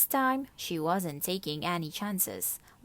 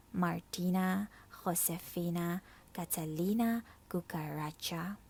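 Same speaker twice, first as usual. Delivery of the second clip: tender. Acted. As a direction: speak to her gently. Mouse speaks tenderly.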